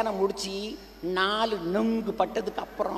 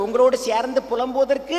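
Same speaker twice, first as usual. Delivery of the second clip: a touch louder on உங்களோடு; 3 semitones higher, 5 dB louder than usual. Shown as a demonstration. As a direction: push up the volume on the repeat. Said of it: "சத்தமா சொல்லுங்க".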